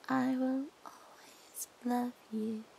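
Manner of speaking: slow, whispered I will always love you; hushed, creepy whispered vow; whispered devotion. Shown as a demonstration. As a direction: breathe it into their ear. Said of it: "repeats the line in new ways".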